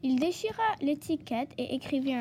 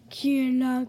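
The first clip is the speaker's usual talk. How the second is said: louder, grumbling badger voice; bad-tempered storybook badger; grumpy growl; 3 semitones lower, 5 dB louder than usual. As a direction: growl it crossly at whoever is at the door. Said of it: "grogna Théo le blaireau".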